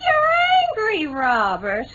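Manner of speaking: high, slow, crying; a bride near tears, begging forgiveness; tearful plea. Acted. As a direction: plead through tears with him. Tearful bride faces jilted groom.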